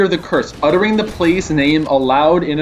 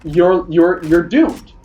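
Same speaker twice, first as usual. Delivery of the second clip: ominous voice in my head. Acted. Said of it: "Voice in my head".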